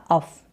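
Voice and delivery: अफ said short, as in "cuff"; a clipped अफ with a short a; teacher models अफ; uff sound. Shown as a demonstration. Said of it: "अफ करके pronounce करेंगे".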